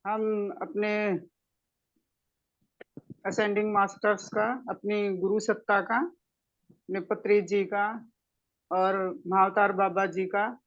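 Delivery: measured meditation guide's voice with pauses; guided meditation. Acted. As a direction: lead them gently into the meditation. (ध्यान कराने वाली शांत, ठहरी हुई आवाज़)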